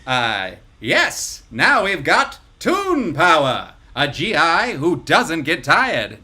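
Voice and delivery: energetic fifties newsreel read; newsreel announcer. Acted. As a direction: boom it like a newsreel. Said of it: "energetic voice of a newsreel announcer".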